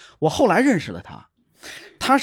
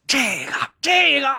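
guessing clerk; 8 semitones higher than usual. Retold or imitated.

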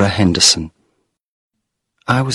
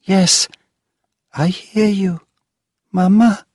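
put-on high, excited child's voice; crying out; 12 semitones higher than usual. A narrator's reading. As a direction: answer her mother's call joyfully. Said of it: "Allegra cried".

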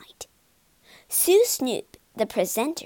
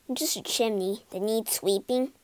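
mildly sad; 3 semitones lower than usual. Acted. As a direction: sigh it out, understated disappointment. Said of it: "Claude said sadly".

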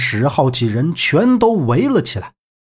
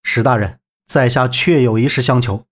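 lower-pitched, understated sincerity; frank; 4 semitones lower than usual. Acted. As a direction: make the request openly, pitched low. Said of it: "坦诚相告道". (低声坦诚相告)

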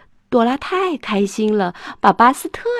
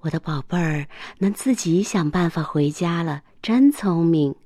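tender. Acted. Mom tucking Arthur in, tender praise. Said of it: "妈妈温柔地说".

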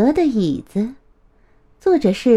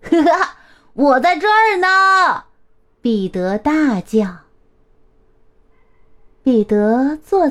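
high, gleeful call after a giggle; big shout; 4 semitones higher than usual. A narrator's reading. Peter surprises his mother from his hiding place, shouting.

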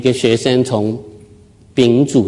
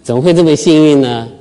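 smug delight; 2 semitones higher than usual. Retold or imitated. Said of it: "那么得意的笑".

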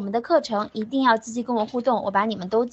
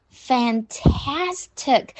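"fantastic" drawn out on TAS; exaggerated stress; much slower than usual. Shown as a demonstration. Teacher telling pupils how to read it, exaggerated stress. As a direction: stretch the middle of "fantastic". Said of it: "读得很夸张".

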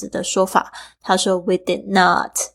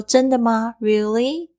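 Really? ending on a clear upward lift; rising tune; 3 semitones higher than usual. Shown as a demonstration. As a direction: let Really? rise at the end. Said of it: "注意一下语调上扬".

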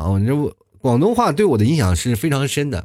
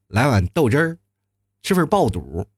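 put-on Beijing accent; 2 semitones lower than usual. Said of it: "他说，哎，这个".

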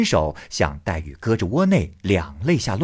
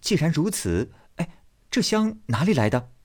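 Baoyu laughing; 7 semitones higher than usual. Acted. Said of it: "宝玉笑道".

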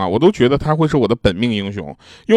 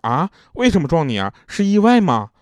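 retold surprise, rising much higher; a startled, higher-pitched mock gasp of a question; imitating the ward's shocked reaction; astonished question; 7 semitones higher than usual. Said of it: "我们都很惊讶".

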